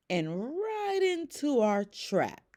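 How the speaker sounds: high, slow, gleeful; giggling. Acted. Bunny gloating over the trap, high and giggly. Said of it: "added Bunny with a giggle".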